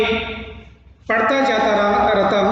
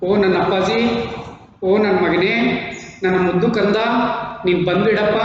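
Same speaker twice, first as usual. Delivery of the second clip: coaxing mother. Acted. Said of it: "ಕಹತಿ".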